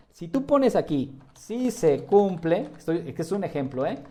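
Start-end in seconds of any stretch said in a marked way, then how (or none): 1.3-2.7 dictating. Shown as a demonstration. Dictating aloud while filling in the answer.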